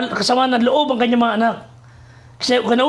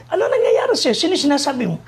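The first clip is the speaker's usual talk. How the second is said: startled; 3 semitones higher than usual. Retold or imitated. Master startled by servant.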